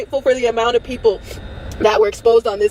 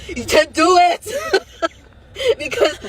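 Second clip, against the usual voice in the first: tearful defiance; 6 semitones higher, slower than usual. Real, not acted. Taunting people who threaten her life.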